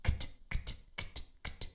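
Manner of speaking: Kt, kt whispered as a tight k then t with no vowel; kt drill. Shown as a demonstration. Teacher demonstrating the final kt blend. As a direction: click out Kt, kt softly. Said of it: "now try, try to do this".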